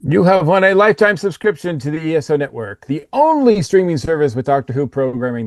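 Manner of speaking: mock game-show prize read; lightly voiced prize announcer. Co-host announcing the guest's prize, mild mock announcer.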